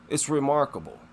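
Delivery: ordinary delivery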